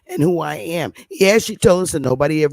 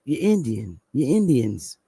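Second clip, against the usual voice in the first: put-on Southern accent; 4 semitones lower, 3 dB quieter than usual. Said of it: "they were like".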